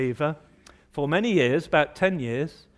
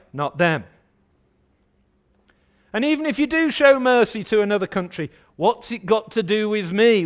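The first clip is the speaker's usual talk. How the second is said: raised, higher-pitched challenge to God; indignant protest; 4 semitones higher, 3 dB louder than usual. Acted. Preacher voicing Jonah arguing with God, indignant protest.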